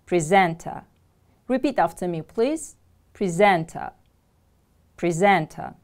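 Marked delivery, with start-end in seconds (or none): 0.1-0.8 "Presenter" stressed on SENT; stress on second syllable. Shown as a demonstration. Teacher models new word for class, "Presenter" stressed on SENT. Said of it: "The stress is on the second syllable". 3.1-5.7 "Presenter" stressed on SENT; stress on second syllable. Shown as a demonstration. Teacher models new word for class, "Presenter" stressed on SENT. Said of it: "The stress is on the second syllable".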